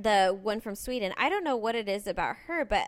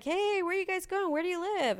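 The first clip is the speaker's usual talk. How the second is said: put-on drunk guy calling out; 10 semitones higher than usual. Drunk young man calling to women on the street, high hollering. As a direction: play a tipsy street kid shouting a come-on. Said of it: "he's like".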